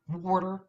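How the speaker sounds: water said as "wawter"; Philadelphia pronunciation. Shown as a demonstration. Speaker recalls being coached out of a North Philadelphia accent, Philly pronunciation. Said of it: "don't say water".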